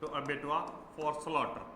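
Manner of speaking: slow, word by word; slow dictation. Shown as a demonstration. Teacher repeating the sentence slowly for students to copy. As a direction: drag each word out for writing. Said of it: "जैसे एक sentence बनाएं".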